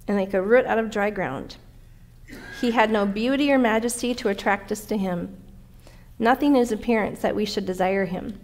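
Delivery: measured scripture reading, each phrase opened firmly. Acted. Preacher reads Isaiah's prophecy to the congregation, scripture reading. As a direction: read the prophecy aloud, easing down at phrase ends.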